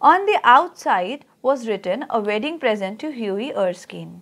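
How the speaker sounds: slow, measured reading of a text; story read-aloud. Real, not acted. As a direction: read it out slowly for a class, stretching the words. Reads the lesson text aloud.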